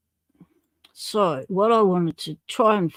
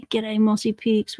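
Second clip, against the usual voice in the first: playful whisper; 3 semitones higher than usual. Real, not acted. Greeting a viewer on stream.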